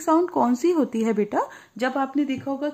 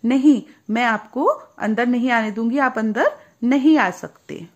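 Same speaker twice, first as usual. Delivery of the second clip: louder, firm voiced refusal; rosebud refusing; 5 dB louder than usual. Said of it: "तो रोजबर्ड बोली". (कली का दृढ़ इनकार)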